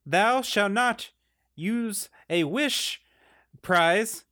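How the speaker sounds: town crier decree. Acted. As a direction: read the decree like a herald. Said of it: "I present this word from the Chancellor".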